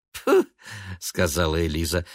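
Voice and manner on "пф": короткое высокое фырканье; фыркни с пренебрежением; презрительное фырканье. A narrator's reading. (пренебрежительное «пф»)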